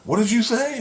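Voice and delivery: high-pitched imitated question; mock shocked demand. Thor hearing the secret name, high mock shock. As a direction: imitate someone startled and demanding an answer.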